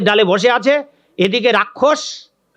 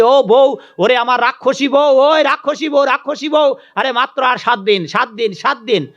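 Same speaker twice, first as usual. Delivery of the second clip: gleeful higher calling out to his wife; demon shouting to wife; 5 semitones higher than usual. Acted. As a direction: demon yelling his good news across the forest cave. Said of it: "বউকে চিৎকার দিয়ে বলছে".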